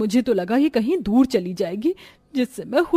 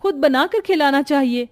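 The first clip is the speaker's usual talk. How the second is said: indignant protest; 4 semitones higher than usual. Acted. Bahu protests food taken.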